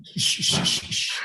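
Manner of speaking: whispered shh to calm her; soft shushing. Acted. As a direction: hush her gently. Father soothes his crying daughter.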